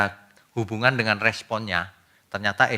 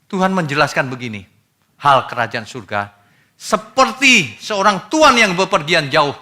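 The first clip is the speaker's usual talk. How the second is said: ordinary talk, nothing marked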